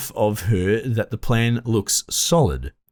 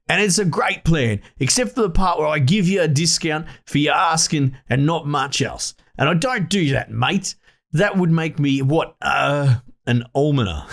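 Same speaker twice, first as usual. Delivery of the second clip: lightly voiced Nabo, a touch higher, scoffing; merchant's refusal; 4 semitones higher than usual. Nabo scoffing at the discount request, lightly voiced. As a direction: turn down the deal with a smirk.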